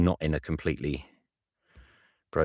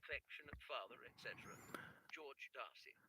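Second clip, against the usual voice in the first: whispered, higher letter ending; whispered sign-off; 8 semitones higher, 26 dB quieter, faster than usual. Shown as a demonstration. Reader whispers the father's sign-off to himself. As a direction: breathe the signature softly. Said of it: "Darcy, Dad, Standard".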